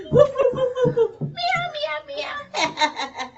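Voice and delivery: loud, high dog then cat sounds; barking and meowing. Pretend. Kids pretending to be animals, loud high woofs and meows. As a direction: bark then meow like playful pets.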